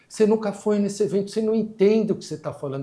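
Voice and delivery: mais aguda e alta, acusando; acusação indignada. Retold or imitated. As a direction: aponta o dedo com a voz. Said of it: "Ele nunca tinha ido". (funcionária acusa o diretor, aguda e indignada)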